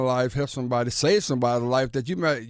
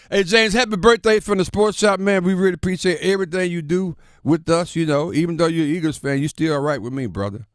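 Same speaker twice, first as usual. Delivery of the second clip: loud birthday shout-out; 6 semitones higher, 5 dB louder than usual. Real, not acted. Loud on-air birthday wishes.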